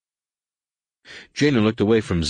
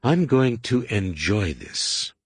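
menacing relish; 2 semitones higher, slower than usual. Acted. Jaina relishes the coming fight.

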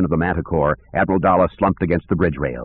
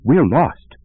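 daddy voice; 7 semitones higher than usual. Acted. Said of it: "in his best daddy voice".

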